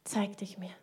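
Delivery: breathy whisper, pleading; whispered prayer. Shown as a demonstration. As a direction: whisper it as a last plea to God. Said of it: "ein Gebet darf sich auch so anhören".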